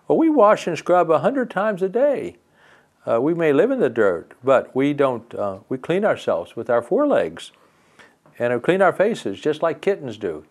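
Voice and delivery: high, prim ants boasting of cleanliness; lightly voiced proud ants. Ants answer the fairy.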